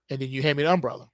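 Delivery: usual speaking voice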